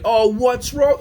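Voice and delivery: high, loud sing-song concern; overdone caring voice; mock sympathy. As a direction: ask what's wrong with hammed-up concern. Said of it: "and then you fall right".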